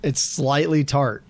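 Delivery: lip smacking while talking; smacking lips first. Real, not acted. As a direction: smack the lips between words. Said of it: "Sorry for the lip smacking".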